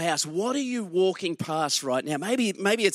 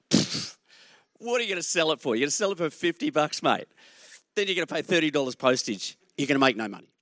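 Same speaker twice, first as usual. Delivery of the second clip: scoffing; faster than usual. Retold or imitated. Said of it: "I rolled my eyes".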